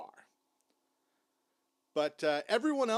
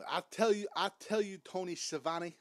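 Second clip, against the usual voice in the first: abandoned attempt at a wrestler's promo accent; Dusty Rhodes; 3 semitones higher than usual. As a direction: lightly put on a higher wrestling-promo voice. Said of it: "impression of the great Dusty Rhodes".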